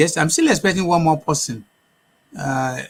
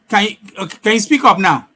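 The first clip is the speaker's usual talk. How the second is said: to someone hard of hearing; 4 semitones higher, 6 dB louder, faster than usual. Real, not acted. Calling to guest on bad line.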